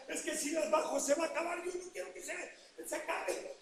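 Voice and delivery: hushed thought, arms aching; quiet inner thought. Retold or imitated. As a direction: plead to yourself under your breath. Inner thought while exhausted.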